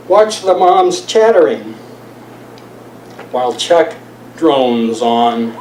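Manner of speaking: lilting verse delivery, paused between phrases; poetry reading. Acted. Poet telling of Chuck in the park, measured poem reading. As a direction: read it aloud as measured free verse. Reads own poem aloud.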